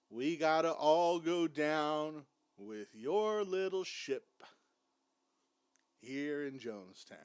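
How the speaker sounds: slow, drawn-out mock lament; mock dramatic. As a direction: drag out each phrase for sarcastic drama. Mocking cult leader's drama, drawn out.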